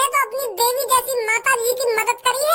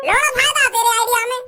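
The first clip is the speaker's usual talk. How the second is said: angry retort. Acted. Brother scoffs at the plan.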